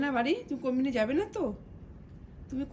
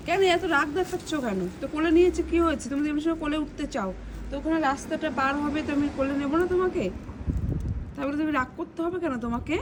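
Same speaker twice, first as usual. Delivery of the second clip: exasperated scolding; 4 dB louder than usual. Real, not acted. Parent scolds sulking daughter.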